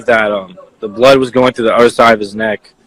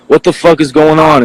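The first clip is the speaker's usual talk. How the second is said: higher, mild mock yell; retold yell; 5 semitones higher than usual. Witness quoting the victim's last words, mildly yelled. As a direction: imitate a startled man's yell, held back. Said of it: "Yeah, he yelled it".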